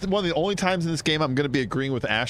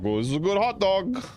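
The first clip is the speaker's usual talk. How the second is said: higher-pitched, lightly put-on New York accent; New Yorker; 6 semitones higher than usual. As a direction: recount a crime like a Law and Order New Yorker. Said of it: "I talk like a New Yorker".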